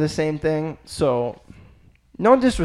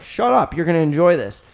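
higher mock dad brushing him off; 4 semitones higher, 3 dB louder than usual. Dad telling his skeptical son to enjoy the meal, mock dismissive. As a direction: play the dad waving off a whiny kid. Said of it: "my dad was like".

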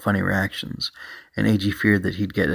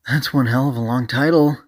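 higher-pitched, mildly raised call; 5 semitones higher, 3 dB louder than usual. Acted. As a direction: call it out in mock disbelief. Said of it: "A G called out".

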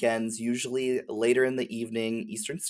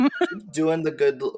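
laughing; 5 semitones higher, 4 dB louder than usual. Real, not acted. Laughs while thanking host.

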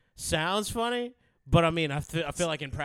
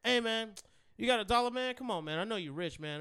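put-on higher, wheedling kid voice; begging kid; 5 semitones higher, 4 dB quieter than usual. Teller voicing the kid begging at his window, lightly. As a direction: wheedle for a dollar.

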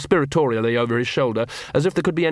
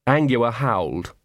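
plain reading voice

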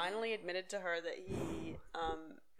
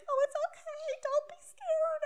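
very high, loud mock wail; slow, drawn-out weepy parody; imitated tearful comforting; 7 dB louder than usual. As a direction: soothe through hammed-up sobs. Imitates Brittany comforting scared dog.

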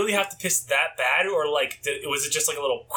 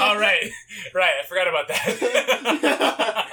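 laughing realization; slower than usual. Retold or imitated. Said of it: "And I'm like".

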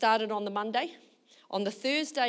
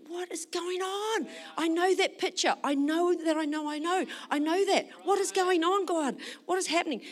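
downhearted; 8 semitones higher than usual. Retold or imitated. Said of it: "I'm downhearted".

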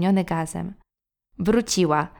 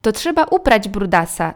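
called out; 5 dB louder than usual. Acted. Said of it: "zawołała nasza mama".

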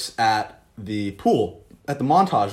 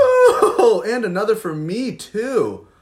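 laughing; 9 semitones higher, 5 dB louder, much slower than usual. Acted. Asks bartender for another beer.

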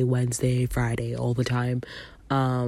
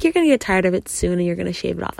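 mimicking sister; 4 semitones higher, 4 dB louder, much faster than usual. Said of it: "She's like".

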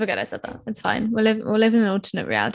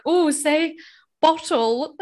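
a light, higher mock American voice, amused; mock American asking; 6 semitones higher, slower than usual. Mocking American fan asking her to say bottle. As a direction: tease Americans begging for a British word. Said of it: "all the English accent stuff".

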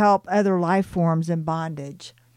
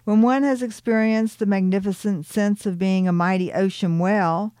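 proudly; 3 semitones higher than usual. Acted. Ariel proudly answers Tillicum about being a well, proud. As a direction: declare it like a proud ocean well. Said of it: "she said proudly".

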